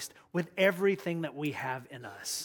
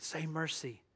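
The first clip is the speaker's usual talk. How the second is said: soft, pleading crowd voice; hushed; 7 dB quieter than usual. Acted. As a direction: quietly urge him to give in. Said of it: "everybody got quiet".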